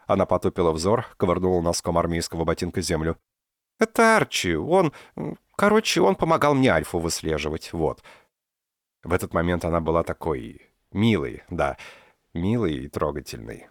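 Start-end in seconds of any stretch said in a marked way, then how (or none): 3.8-8.0 higher, embarrassed mumbling; flustered girl. A narrator's reading. Dinka shyly introduces Archi to the professor. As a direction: stumble through it, blushing.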